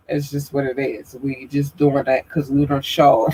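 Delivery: congested, blocked-up nose; stuffy nose. Real, not acted. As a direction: talk through a stuffed-up nose. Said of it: "I'm stuffed right now".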